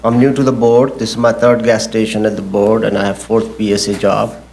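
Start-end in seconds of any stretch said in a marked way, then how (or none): 0.0-2.3 projected a little more firmly; speaking up. Real, not acted. Applicant repeating himself for the board after a request, speaking up. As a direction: lift the voice so the whole board hears. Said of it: "Could you speak up".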